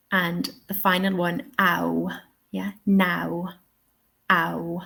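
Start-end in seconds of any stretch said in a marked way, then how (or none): 1.6-4.8 "ow" and "now" with the RP glide; RP diphthong. Shown as a demonstration. Teacher modelling RP for learners, "ow" as one glide. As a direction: say "now" and "ow" as the king would, in RP. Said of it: "How would the king say this?".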